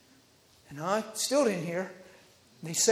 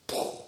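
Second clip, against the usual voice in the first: puffed-out "pooh" sound effect; imitated burst; 6 dB quieter than usual. Preacher showing how he got her attention, imitated burst. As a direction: mimic a sudden puff of impact. Imitates the Spirit's sudden hit.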